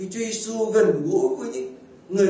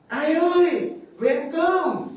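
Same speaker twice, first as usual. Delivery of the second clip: high, louder shy call "ai ơi, về ăn cơm"; shy mother calling; 10 semitones higher, 4 dB louder, much slower than usual. Retold or imitated. A mother calling her husband home to eat, shyly high. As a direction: call out coyly, not daring to say his name. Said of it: "mẹ tôi mới gọi".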